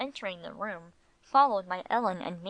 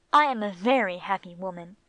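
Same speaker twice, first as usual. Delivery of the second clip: louder, emphatic "I am a very happy woman"; 6 dB louder than usual. A narrator's reading. Wife assures husband, "I am a very happy woman" said emphatically. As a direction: lean firmly into "I am a very happy woman". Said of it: "she said with emphasis".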